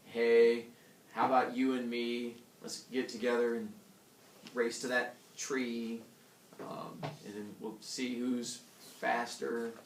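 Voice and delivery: slow, sing-song rhyming recital; reciting a verse fable. Shown as a demonstration. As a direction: read it like a little poem, trailing off. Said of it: "As an example, you could have something along the lines of".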